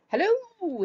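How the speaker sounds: high, loud call of Hello; Tigger's high calling Hello. Acted. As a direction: sing out a long, bright Hello from afar. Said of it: "he shouted to the right".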